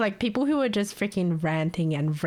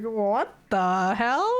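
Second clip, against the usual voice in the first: stunned what the hell; 2 semitones higher, much slower than usual. Retold or imitated. Shocked reaction, drawn out.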